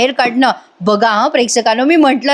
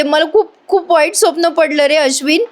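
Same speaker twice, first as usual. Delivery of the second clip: higher, mock tearful voice; imitated upset; 4 semitones higher than usual. Priya telling Ashwin her nightmare, mock upset. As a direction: act shaken by a bad dream. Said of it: "ती रडते पडते".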